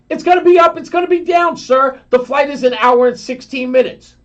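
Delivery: mocking steward. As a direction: parrot his line in a sugary voice. Steward's words repeated mockingly.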